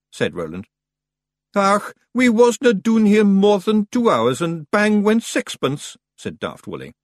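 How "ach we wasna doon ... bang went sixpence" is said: high, loud, slow Scots pixie; indignant about the price; grumbling Feegle. Acted. Daft Woolly complains about the fare.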